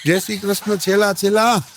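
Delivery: cheeky grinning goodbye; grinning son-in-law. Retold or imitated. Son-in-law grins at drowning mother-in-law, gleeful. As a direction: grin through a mock farewell. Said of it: "ન્યા ઊભો ઊભો દાંત કાઢે કે".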